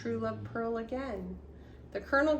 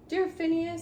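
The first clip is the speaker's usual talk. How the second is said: lightly voiced corporal crab; 8 semitones higher, 5 dB louder than usual. A narrator's reading. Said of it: "said Corporal Bert".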